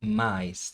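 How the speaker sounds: "Mais" said alone, both vowels sounded; isolated syllable. Shown as a demonstration. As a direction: model "Mais" with A gliding into I. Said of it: "perceber aqui o som do A".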